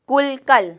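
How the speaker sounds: کل کل as "kul, kal", loud and separated; first کل with "u", second کل with "a"; contrasted short vowels. Shown as a demonstration. Teacher contrasting look-alike words, کل کل said "kul, kal". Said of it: "دونوں لفظوں کا فرق واضح".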